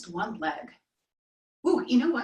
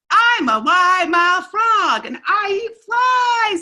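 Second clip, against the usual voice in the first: high and loud, slow, bellowing frog boast; big frog shout; 9 semitones higher, 7 dB louder, slower than usual. Shown as a demonstration. Teacher showing kids how to shout the frog's line. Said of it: "you say".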